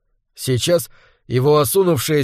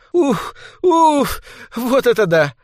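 breathless laughing gasp; 8 semitones higher, slower than usual. A narrator's reading. Mother recovering from laughter.

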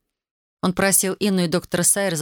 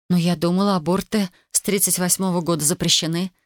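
ordinary delivery, nothing marked

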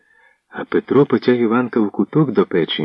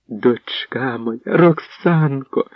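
мамин радісний оклик; 5 semitones higher, much slower than usual. Acted. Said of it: "кинулася вона до Роксани".

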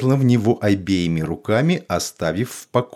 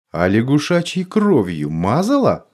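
stern; 5 semitones higher than usual. Acted. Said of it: "Холодный голос стал чуть строже".

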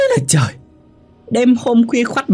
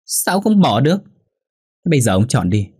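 higher-pitched, insistent angry ultimatum; shrieking wife; 5 semitones higher than usual. A narrator's reading. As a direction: lay down the law in a heated, raised pitch. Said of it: "Hòa rít lên".

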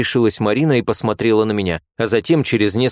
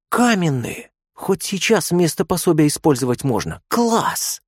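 put-on much higher, slow, thrilled girlish gasp; excited exclamation; 8 semitones higher than usual. A narrator's reading. Marina seeing the patient's muscles, thrilled. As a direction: squeal with delight at his muscles.

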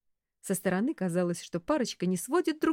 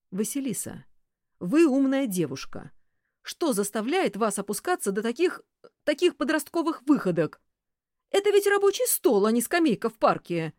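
higher, louder reproach; furious lecture; 6 semitones higher, 6 dB louder than usual. A narrator's reading. Boss lectures secretary, furious. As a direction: scold like a stern boss.

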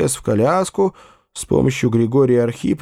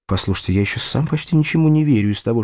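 usual speaking voice

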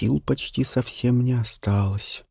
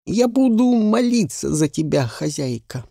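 hard, manly; 7 semitones higher than usual. Acted. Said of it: "сказал это жёстко, по-мужски".

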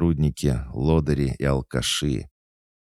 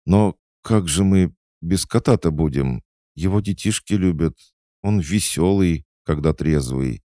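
higher and louder, anxious appeal; flustered young manager, pleading; 7 semitones higher, 5 dB louder than usual. Acted. Manager begging the owner to spare the cat, flustered. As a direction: plead for a hopeless colleague.

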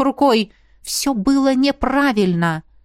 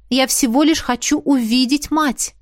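твёрдо; 4 semitones higher than usual. Acted. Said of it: "повторила я твёрже".

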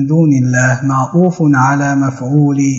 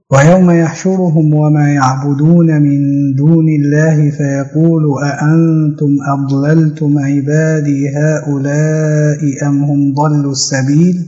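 Quran verse recitation. A narrator's reading. Recites the verse under discussion. (تلاوة متأنية مع إطالة المدود)

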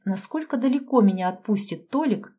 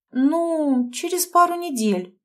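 drawn out; 8 semitones higher, slower than usual. A narrator's reading. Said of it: "протянула я".

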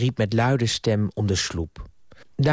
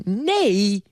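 higher-pitched, curt cut-in; curt refusal; 9 semitones higher than usual. A narrator's reading. Niece refusing her uncle's dinner invitation, curt. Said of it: "zei Ardita kortaf".

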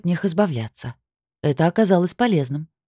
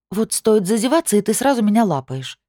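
indignant protest; 7 semitones higher than usual. Acted. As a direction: protest in mock outrage.

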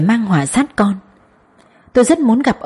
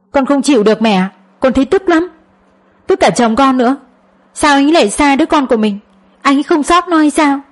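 upset venting; 6 semitones higher than usual. Acted. Daughter venting anger to mother.

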